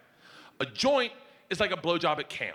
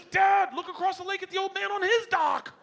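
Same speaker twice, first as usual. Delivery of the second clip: higher, loud urgent call; daughter calling out; 14 semitones higher, 3 dB louder than usual. Retold or imitated. Daughter calling her dad to look across the lake, loud. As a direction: point it out urgently.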